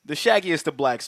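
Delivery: announcer-style showman intro; ringmaster. Acted. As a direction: boom it out like a circus barker. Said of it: "as I do this opening".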